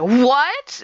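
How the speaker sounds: loud, high, rising shriek of disbelief; shocked outrage. Retold or imitated. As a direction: squawk it upward in mock shock. Customer shocked at security.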